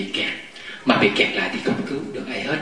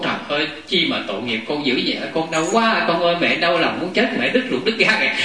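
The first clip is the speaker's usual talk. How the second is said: imitating a mother's weepy fussing, mildly; mother lamenting; 3 semitones higher than usual. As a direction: lament over a hurt child, half-acted. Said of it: "Mà người mẹ đó mà khóc với con". (nhại nhẹ giọng mẹ than khóc xót con)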